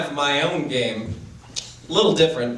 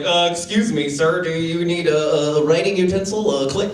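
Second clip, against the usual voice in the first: mock polite white guy. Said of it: "White dude be like".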